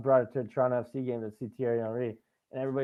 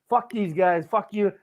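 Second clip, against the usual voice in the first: retold yell, higher and louder; jeering back at the rival crowd; taunting shout; 7 semitones higher, 6 dB louder, slower than usual. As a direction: fan yelling at hecklers.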